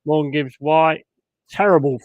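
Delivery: disgusted at a bad pass; fed-up fan; frustrated groan. Real, not acted. Fan watching his team lose.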